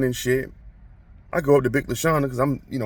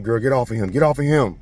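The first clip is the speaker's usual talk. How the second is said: retold stern order; 3 dB louder than usual. Principal breaks up the fight.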